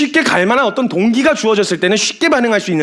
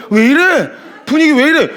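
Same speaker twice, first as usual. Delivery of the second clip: higher-pitched acted disbelief; mock bewilderment; 5 semitones higher than usual. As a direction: play a baffled newcomer, pitched up. Newcomer startled by strange church music. (당황한 새 신자 흉내)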